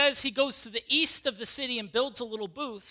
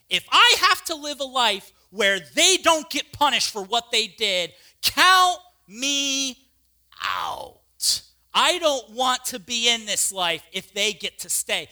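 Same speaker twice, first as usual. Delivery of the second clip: defiant refusal; 6 dB louder than usual. Acted. Jonah's defiant demand.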